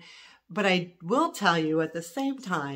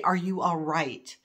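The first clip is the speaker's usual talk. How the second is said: caring; slower than usual. Shown as a demonstration. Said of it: "your instant thing should be".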